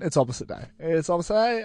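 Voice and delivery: softly repeating it under the breath; muttered to himself. Retold or imitated. Friend at the cinema muttering quietly to himself. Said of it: "I just went".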